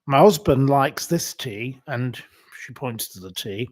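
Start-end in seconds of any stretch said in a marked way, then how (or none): 0.0-1.8 mock old lady. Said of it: "where the little old lady goes".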